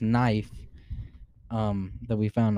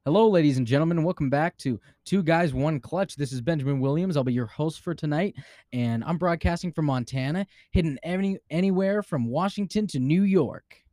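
confident, higher announcer intro; 3 semitones higher than usual. Shown as a demonstration. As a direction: open the show like a seasoned radio announcer. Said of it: "like, an announcer voice".

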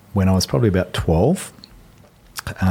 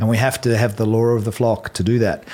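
pitched up, lightly voiced stern flock laying down the law; mock-lecturing as the narrow-minded flock; the flock's voice; 4 semitones higher than usual. Retelling the flock scolding Jonathan, lightly voiced lecture. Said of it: "the flock holds him down, says".

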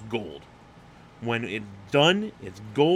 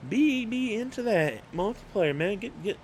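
mock pep talk; 8 semitones higher than usual. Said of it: "And it's like".

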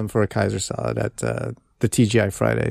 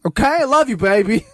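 mock sweet talk; 8 semitones higher than usual. Mock sweet-talking partner.

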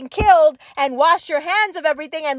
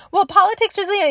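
mock bystander; 5 semitones higher, faster than usual. Mocking a bystander's excuses.

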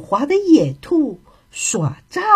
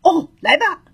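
high-pitched storybook cry; a raised, moderately forceful exclamation; 5 semitones higher than usual. Acted. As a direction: call out as the stuck hare. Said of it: "他大叫".

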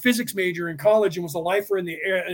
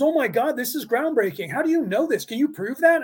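excited amazement; 5 semitones higher than usual. Retold or imitated. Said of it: "He says".

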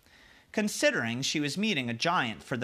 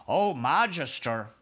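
giant's voice; 4 dB louder than usual. Acted. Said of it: "cried the B F G".

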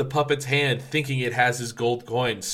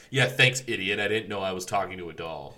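sarcastic; 4 semitones lower than usual. Retold or imitated. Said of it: "like, a sarcastic remark".

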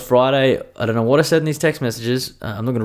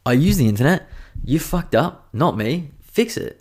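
exasperated demand; 7 semitones higher, slower than usual. Retold or imitated. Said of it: "I'm just like".

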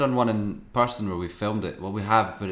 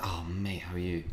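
endearing; 8 dB quieter than usual. Retold or imitated. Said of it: "When it's endearing, it's like".

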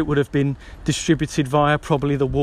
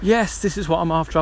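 excited; 4 semitones higher than usual. Retold or imitated. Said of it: "finding that book and going".

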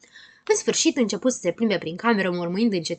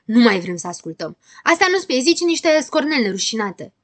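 indignant protest, rising higher and louder; shouting; 3 semitones higher, 5 dB louder than usual. Acted. Friends refuse to hear more poems, shouting. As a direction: build from firm refusal to raised outcry. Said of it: "strigară cu toții".

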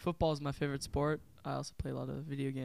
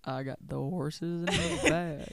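country accent; 5 dB louder, slower than usual. Shown as a demonstration. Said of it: "can you say".

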